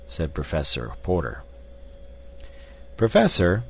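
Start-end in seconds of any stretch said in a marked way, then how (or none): 3.0-3.6 weighed, firm address, pitched up; deliberate. A narrator's reading. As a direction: open with careful emphasis, louder. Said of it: "continued Robert Candler with great deliberation".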